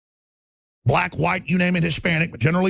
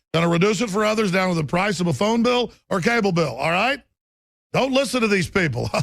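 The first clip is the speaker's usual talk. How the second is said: a hint of Obama, smooth and reassuring, half-laughing; lightly voiced Obama; 3 semitones higher than usual. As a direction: sell it like a slick politician, only lightly imitated. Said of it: "I'm quoting Obama right now".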